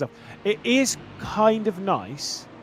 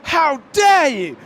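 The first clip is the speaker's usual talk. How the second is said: high, slow outraged shout; pit crew chief shouting; 12 semitones higher, 9 dB louder, much slower than usual. Retold or imitated. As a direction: bellow it at the wrecker. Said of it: "standing up being like".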